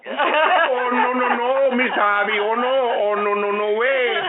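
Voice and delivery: put-on high-pitched, dramatic Miss Colombia accent; mock Colombian accent. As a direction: refuse in a hammed-up Colombian accent. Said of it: "said in her best accent".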